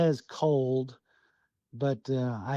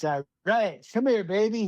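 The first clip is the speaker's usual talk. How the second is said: put-on playful higher voice for a young bull moose; eager little bull; 6 semitones higher than usual. Hunter voices little bull moose wooing the cow, playful. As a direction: voice the little bull's cocky come-on. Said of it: "the little bull, he thinks".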